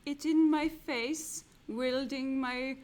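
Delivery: hammy portentous wizard. Pretend. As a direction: declaim the clue as a grand wizard. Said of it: "Shall I drop the wizard's voice".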